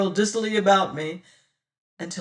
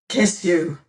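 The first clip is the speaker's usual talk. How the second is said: louder, rough and savage; 6 dB louder than usual. Acted. Martin answers Damaris with savage force. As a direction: bite the words out fiercely. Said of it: "says I savagely".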